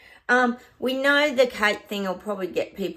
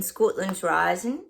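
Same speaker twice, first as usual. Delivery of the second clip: poor attempt at a Scottish accent; bad Scottish accent; slower than usual. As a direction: try a Scottish accent and miss. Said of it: "I haven't got a good Scottish accent".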